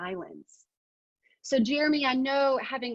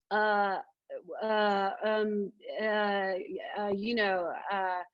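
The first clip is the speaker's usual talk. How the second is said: hesitant uh and um placeholders; filler-word demo; slower than usual. Shown as a demonstration. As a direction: stall with fillers on purpose. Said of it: "these are so distracting".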